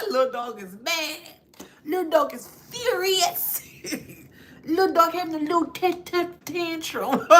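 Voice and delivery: high, laugh-choked mockery; mock them while cracking up; laughing at the little dog; talking through laughter. Real, not acted.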